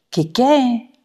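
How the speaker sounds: high, surprised double question. Retold or imitated. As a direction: caught off guard, ask it twice. Surprised reply in retold scene.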